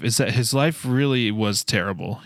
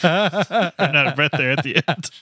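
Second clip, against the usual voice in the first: talking through laughter; laughing; 6 semitones higher than usual. Real, not acted. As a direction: laugh while you speak. Laughing after the segment jingle.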